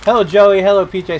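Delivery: talking through a mouthful of chips; greeting while chewing chips; crunching chips. Real, not acted. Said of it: "Sorry, I'm eating chips".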